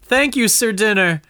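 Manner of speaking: high, swooning damsel voice; hammy stage actor. Acted. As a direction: overplay a delighted damsel. Damsel greets her knight.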